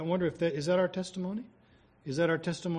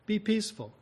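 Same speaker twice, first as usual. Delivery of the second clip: higher, gently drawn-out reassurance, lightly voiced; soothing Holy Spirit; 5 semitones higher than usual. Holy Spirit tells believers not to fight, lightly voiced soothing counsel. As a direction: lightly act out a calming counsel, easing into each phrase. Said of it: "The Holy Spirit says".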